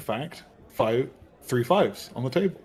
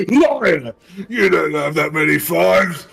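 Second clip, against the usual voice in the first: NPC accusing liar; 4 semitones higher, 5 dB louder, slower than usual. Acted. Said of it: "He's gonna look around and go".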